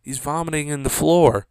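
nonchalant mock commentary; mildly amused, unbothered impression; Joe Rogan. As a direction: take it in stride, lightly imitating an unbothered host. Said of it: "Joe Rogan's just nonchalant".

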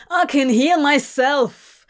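furious shout. Acted. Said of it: "Crowley shouted, furious".

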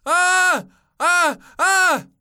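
high, loud terrified screams; three piercing cries of panic. A narrator's reading. Drowning man surfacing in the sea, screaming. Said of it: "he screamed when he came up once".

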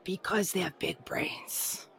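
hushed deadpan punchline delivery; whispered punchline. Acted. Zombie punchline.

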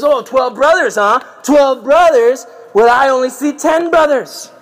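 high, loud mock disbelief; suspicious challenge. Joseph questions the brothers' count, loudly suspicious. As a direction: pounce on their story, pitched well up.

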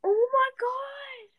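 high, loud, drawn-out exasperation; exasperated outburst. Real, not acted. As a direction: cry out slowly, fed up with being interrupted. Exasperated at the interrupting other child.

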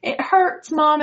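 put-on high, slow, whimpering hurt child; son's crying voice. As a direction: voice the boy's pain, high and slow. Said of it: "And he's like".

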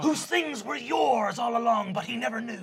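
put-on proud old pirate father; a doting pirate dad voice; gruff pirate dad. GM voicing Papa pirate.

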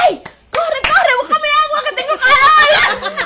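hammed-up tipsy begging her friend; mock drunk plea. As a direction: whine like your drunk self begging for water. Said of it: "Y yo".

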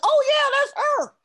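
high-pitched mock dawning realization; sudden realization. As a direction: squeak it out as it finally clicks. Acts out own late realization.

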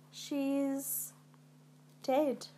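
hushed, halting grief; weeping servant. A narrator's reading. Servant telling Macbeth of the Queen's death, grieving. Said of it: "wringing his hands and weeping".

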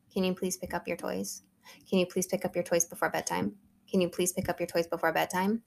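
softly voiced, patient request to a child; патient mom asking. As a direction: ask nicely, as a mom repeating herself. Mom repeats a calm request.

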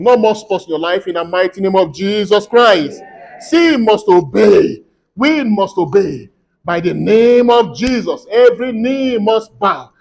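forceful prayer declaration. Real, not acted. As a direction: proclaim blessings with rising force over the congregation. Declares blessings over congregation.

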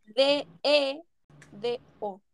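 slow spelling with a pause midway; por sílabas. Real, not acted. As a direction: finish spelling piece by piece. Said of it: "Lo estáis haciendo por sílaba". (deletreando por partes, con pausas)

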